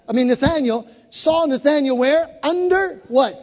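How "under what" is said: ordinary talk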